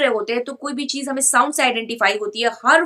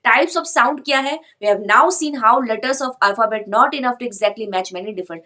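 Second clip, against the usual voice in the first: slow heading read; much slower than usual. Shown as a demonstration. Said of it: "reads the English heading".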